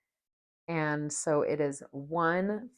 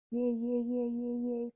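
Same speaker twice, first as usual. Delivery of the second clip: high little cheers, yay yay yay; cheering; 7 semitones higher than usual. Acted. Cheering the flowers she is snipping, high and happy. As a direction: celebrate each snip with bright high cheers.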